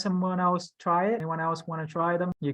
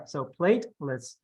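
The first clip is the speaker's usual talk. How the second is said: staccato. Shown as a demonstration. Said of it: "Do it slowly".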